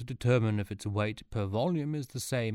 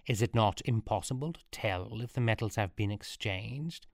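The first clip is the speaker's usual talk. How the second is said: lightly voiced solemn priest; priestly. Robed advisor addresses the court, lightly priestly. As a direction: intone it a touch like a priest. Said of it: "spoke priestily".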